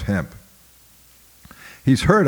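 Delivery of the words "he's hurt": put-on high, loud child's protest; boy protesting to the overseer, high and loud; boy's protest. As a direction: cry out for the wounded man. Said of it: "I protested".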